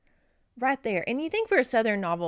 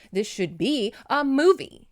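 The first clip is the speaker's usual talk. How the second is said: excited; 4 semitones higher, 7 dB louder than usual. Real, not acted. Gushing about a loved novel.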